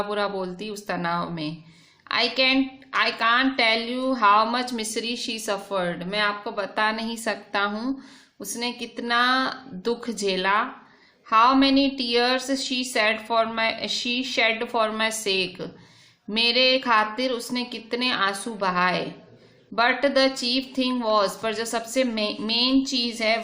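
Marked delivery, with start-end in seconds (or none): 2.1-15.6 slow, deliberate reading of the English text; slow reading aloud. Shown as a demonstration. Rereads English text slowly. 19.7-21.3 slow, deliberate reading of the English text; slow reading aloud. Shown as a demonstration. Rereads English text slowly.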